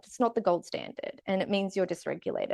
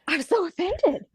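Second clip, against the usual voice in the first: higher, hammed-up indignation; mock offended; 9 semitones higher than usual. Recalling her friend's blunt remark, mock offended indignation. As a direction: play the insulted one, half in jest. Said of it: "And I thought".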